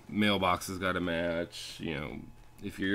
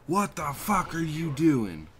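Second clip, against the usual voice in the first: higher, drawn-out mock outrage; imitating an indignant challenge; angry homeowner; 9 semitones higher, 4 dB louder, slower than usual. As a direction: confront someone as the irate homeowner, pitched up. Retelling an angry homeowner's confrontation.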